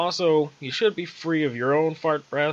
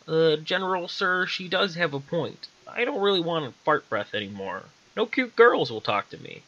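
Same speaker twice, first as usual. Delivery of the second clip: timid soldier voice; 5 semitones higher than usual. Acted. Nervous soldier speaks to general.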